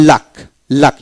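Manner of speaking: "লাক" as a separate word, u sounded like আ; u pronounced as a. Shown as a demonstration. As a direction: model "লাক" twice with an a vowel. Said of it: "ইউর উচ্চারণ হবে, এই ইউটা, আ".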